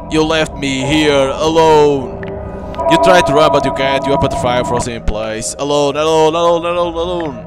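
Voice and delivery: mournful vengeful ghost voice; ghost bride. Acted. Ghost bride speaks to player.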